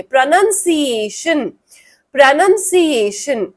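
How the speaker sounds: "प्रोनंसिएशन" as pra-nun-SEE-ay-shun, repeated; long SEE syllable. Shown as a demonstration. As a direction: draw out सी in "प्रोनंसिएशन". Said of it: "बड़ी वाली मात्रा लगाओगे सी में".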